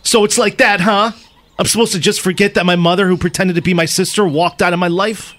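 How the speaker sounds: confronting Mom, acted; mildly heated soap-opera bitterness; hurt, resentful son. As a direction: challenge her with a grudge. Acting son with grudge.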